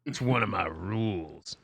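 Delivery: low-pitched, suave character voice; deep, self-assured game character; suave questioner. Acted. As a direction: drop well down and explain your rule smoothly.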